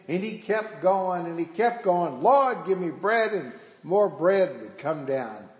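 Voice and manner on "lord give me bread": lightly acted pulpit call, pitched higher; a touch of the preacher's plea. Preacher keeps cueing the boy, lightly calling out. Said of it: "was preaching and preaching".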